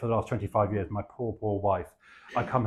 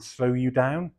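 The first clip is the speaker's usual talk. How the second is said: mock Norfolk accent; 3 semitones higher, slower than usual. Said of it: "which I have to say in a really bad accent".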